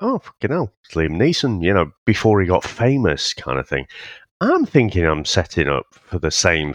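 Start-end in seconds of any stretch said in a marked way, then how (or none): 0.0-1.6 surprised recognition. Retold or imitated. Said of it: "You're like".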